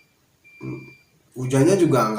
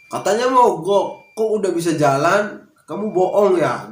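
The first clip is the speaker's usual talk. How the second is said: higher-pitched, accusing telling-off; retold scolding; 6 semitones higher, 4 dB louder than usual. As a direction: imitate the boss's wife scolding with suspicion. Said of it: "saya malah diomelin". (menirukan omelan istri bos)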